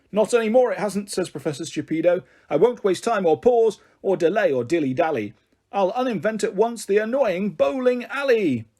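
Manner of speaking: lightly voiced determined professor; pompous professor. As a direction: declare it like a fussy wizard. Professor vows to uninvent.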